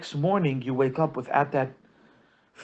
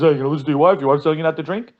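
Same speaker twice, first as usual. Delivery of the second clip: louder, teasing jab at a henpecked friend; mocking taunt; 5 dB louder, much faster than usual. Friend taunts husband at the holiday table, loud and mocking. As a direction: needle him loudly about obeying his wife.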